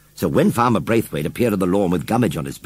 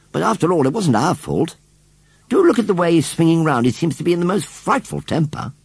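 put-on higher-pitched girl's protest; concerned little girl; 7 semitones higher than usual. A narrator's reading. Susan's figure voice.

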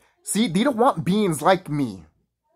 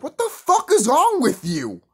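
higher, slow outraged question; incredulous retort; 11 semitones higher, 4 dB louder, slower than usual. Retold or imitated. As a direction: fire it back in disbelief. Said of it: "And I'm like".

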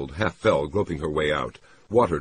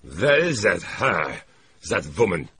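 slow, raised voice of a despairing man; exasperated despair, pitched up; 4 semitones higher, 4 dB louder than usual. Acted. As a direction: drag out the question, at a loss. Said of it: "he said in a despairing voice".

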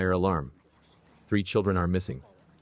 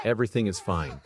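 nervous laugh through the words. Acted. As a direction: laugh it off to calm everyone. Nervous reassurance during fire evacuation.

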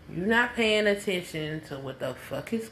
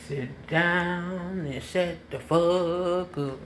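slow emphatic; much slower than usual. Shown as a demonstration. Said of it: "If I say".

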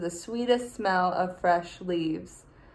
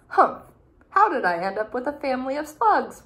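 louder, fast grumble; exasperated humph; 4 semitones higher, 4 dB louder, faster than usual. Acted. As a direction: huff at the lazy family. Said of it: "wondered Snippet".

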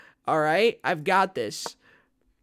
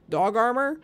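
mock high question; 7 semitones higher, 6 dB louder than usual. Mocking the dog armor option.

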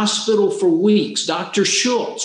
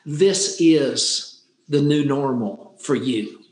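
grave doctor; 4 semitones lower than usual. Retold or imitated. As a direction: lay out the bad news gently but heavy. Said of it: "he got real serious".

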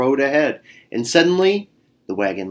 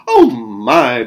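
worried sigh; 5 dB louder than usual. Acted. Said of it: "Bear Louise said".

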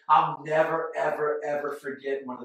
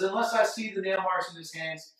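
stubborn; 3 semitones higher, 4 dB louder than usual. Retold or imitated. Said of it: "He says".

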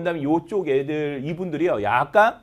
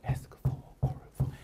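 whispered drill line; 10 dB quieter, much slower than usual. Shown as a demonstration. Teacher whispering the end of the drill, whisper. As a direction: drop to a bare whisper for this phrase.

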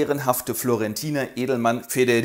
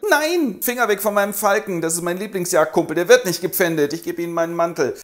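protesting nobleman; 4 semitones higher than usual. Acted. Federigo protests about falcon.

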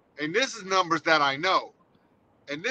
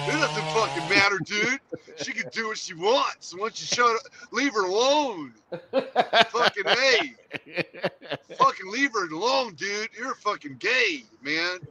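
stoner dude voice. Retold or imitated. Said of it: "Now you sound like Cheech and Chong".

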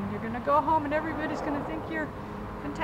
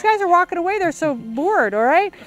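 shouting; 8 dB louder than usual. Real, not acted. Director yelling at actors.

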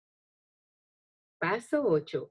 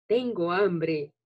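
hungry dragon voice; slower than usual. Shown as a demonstration. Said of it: "dilo con una voz que encaje con cada personaje".

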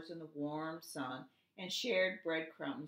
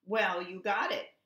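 louder, huffy; 2 semitones higher, 6 dB louder than usual. A narrator's reading. Duck huffs at the bluebird, annoyed. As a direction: huff it out, annoyed. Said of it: "Duck huffed".

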